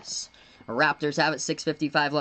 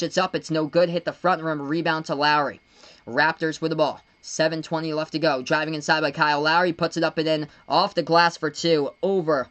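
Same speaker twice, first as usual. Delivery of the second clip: brisk, energetic basketball commentary; keen play-by-play announcer; live play-by-play; 3 dB louder than usual. Real, not acted. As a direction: call the action as it happens. Calls the game live.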